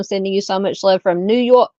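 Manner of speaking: a lightly put-on, clumsy New York accent reading the chat; hammy New York accent, r's dropped; bad New York accent. Reading Miss Doris's chat greeting in a mock New York accent. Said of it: "That was a horrible accent".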